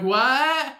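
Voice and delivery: high, loud incredulous yelp; mock shock. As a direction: act out a partner's disbelief. Shocked partner answering Batman.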